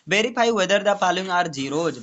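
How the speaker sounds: reads the question slowly, word by word; slow, deliberate question reading. Shown as a demonstration. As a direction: dictate it slowly to the class. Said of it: "teacher reads question aloud".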